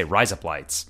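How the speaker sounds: "Rise up, lights" run together to sound like razor blades; "Rise up, lights" as one smooth phrase; Australian-sounding American words. Shown as a demonstration. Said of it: "I'm not trying to put on an Australian accent".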